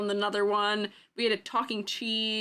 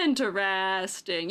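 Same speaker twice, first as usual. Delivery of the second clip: app answer; 3 semitones lower, slower than usual. Retold or imitated. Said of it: "Don't forget interesting".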